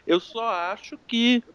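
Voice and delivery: talking through a mouthful; munching popcorn. Real, not acted. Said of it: "Eu tava comendo pipoca agora".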